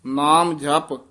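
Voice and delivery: ਨਾਮ ਜਪ with a clear break after ਜਪ; teacher marks the pause for the student, with a clear break after ਜਪ. Shown as a demonstration. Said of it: "ਇੱਥੇ ਵਿਸਰਾਮ ਹੈ".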